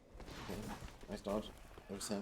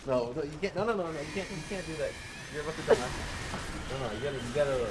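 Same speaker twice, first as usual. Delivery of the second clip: urgent shouting; 5 semitones higher, 6 dB louder, faster than usual. Real, not acted. Urgent warning, about to die.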